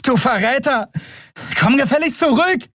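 high, indignant scolding call; angry yelling. Acted. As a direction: tell off the deserter as he runs. Endriel yells at fleeing Keru.

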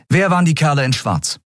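eine Frau, höher gesprochen, fordernd; Andriel, bestimmt. A narrator's reading. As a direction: fordere die Antwort ein. Andriel fragt. (Andriel fordert Erklärungen, bestimmt und höher)

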